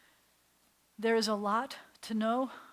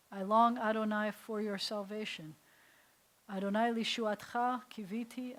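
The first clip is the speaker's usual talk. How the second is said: prayer recitation. Acted. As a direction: intone each word as a prayer. Recites the salvation prayer three ways.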